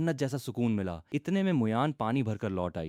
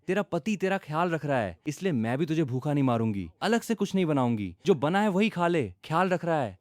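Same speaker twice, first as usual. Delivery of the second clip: calling out; 6 semitones higher than usual. Acted. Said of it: "चिल्लाकर आवाज लगाई".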